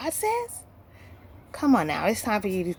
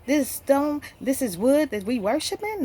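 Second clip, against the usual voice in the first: retold indignant question, pitched higher; lightly acted indignation; mildly mad; 5 semitones higher than usual. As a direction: imitate Abraham's mild outrage, voice raised in pitch. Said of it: "Abraham is mad".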